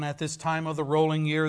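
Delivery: loud declaimed lament; spectre's lament. Acted. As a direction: intone it like a grieving ghost. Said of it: "the specter said".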